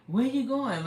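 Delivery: put-on high curious kid voice; child's voice. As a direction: ask like an eager child. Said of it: "kids used to say".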